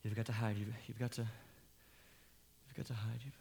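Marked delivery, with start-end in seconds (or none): 1.2-3.2 slow, breathy whisper; drawn-out whisper. Acted. Father whispering slowly to his son to hide. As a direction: stretch out the hushed plea.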